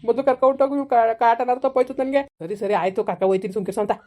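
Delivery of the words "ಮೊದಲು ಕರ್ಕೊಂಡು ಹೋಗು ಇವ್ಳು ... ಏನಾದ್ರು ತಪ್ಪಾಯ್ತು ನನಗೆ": louder, higher, fed-up outburst; exasperated shout. Acted. Man fed up with his wife, exasperated shout. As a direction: burst out at the nagging.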